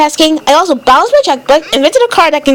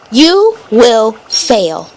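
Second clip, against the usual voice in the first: slow, low, flat robot voice; 5 semitones lower, much slower than usual. Acted. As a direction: speak each word like a machine. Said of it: "You are talking like a robot".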